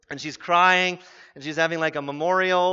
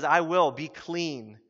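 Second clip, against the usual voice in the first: gentle Jesus; 2 semitones lower, slower than usual. Retold or imitated. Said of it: "And he says".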